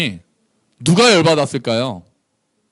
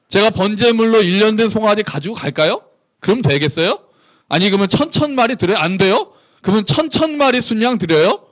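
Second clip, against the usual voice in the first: cheeky questions, pitched up at the ends; insolent sarcasm; 6 semitones higher than usual. Acted. Israel haggling with God over offerings, insolent. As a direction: pile up the offers as snide challenges. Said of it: "싸가지가 없는 거죠".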